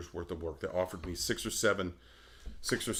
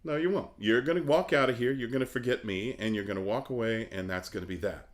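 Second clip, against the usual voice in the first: defiant inner reply. Retold or imitated. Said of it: "I said".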